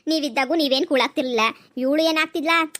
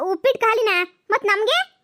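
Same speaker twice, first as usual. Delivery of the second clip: shocked dismay; 7 semitones higher than usual. Acted. Shock that food is gone.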